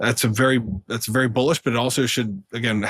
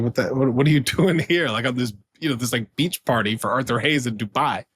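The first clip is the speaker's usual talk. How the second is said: amazed disbelief. Retold or imitated. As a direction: stammer out a laughing what-are-you-doing-here. Surprised running into old colleague.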